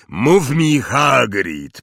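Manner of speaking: slow, loud booming giant; giant's voice. Acted. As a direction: boom it out like a big friendly giant. Hagrid voiced by narrator.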